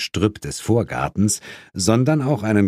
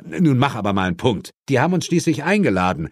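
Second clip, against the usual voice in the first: fast, higher-pitched self-defence; exasperated; 6 semitones higher, faster than usual. Acted. Friend defending his gift list to partner, exasperated. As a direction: protest in a testy rush.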